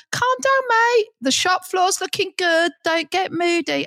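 high-pitched jokey reassurance; playful high-voiced calming down; mock placating. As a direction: call it out high, chivvying him along. Retold jolly soothing of annoyed shopper.

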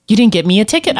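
mock-aggrieved kid's complaint; upset child. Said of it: "she was so upset. Like, she's like".

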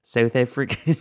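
shaky attempt at a South African accent; amateur South African accent, badly faked. Shown as a demonstration. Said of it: "I was gonna try to make it".

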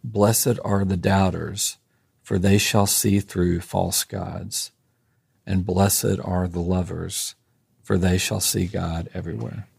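slow, measured benediction reading; unhurried reading so listeners catch each line. Real, not acted. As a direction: read it slowly, pausing between each blessing. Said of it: "I'll try to read this slowly".

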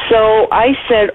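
ordinary talk, nothing marked

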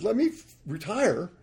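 mock pleading. Pilot bargaining with God to keep flying, high mock plea.

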